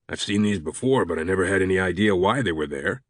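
lightly voiced, puzzled colleague; a hint of another man's voice, mildly puzzled; puzzled Anderson character voice. Anderson admitting he never knew about the marks, puzzled.

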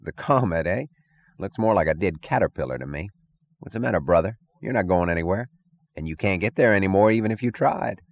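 insolent. Acted. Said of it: "an insolent voice".

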